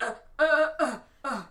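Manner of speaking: mock stuttering uh-uh; flustered little grunts, imitated; stammered uhs. Imitating the kid put on the spot by dad, stammering.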